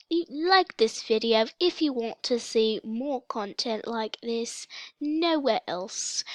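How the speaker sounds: put-on British accent, stretched at the end. Vlogger asking viewers to like the video, mock British accent. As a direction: slip into a playful British accent. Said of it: "Sorry for the British accent".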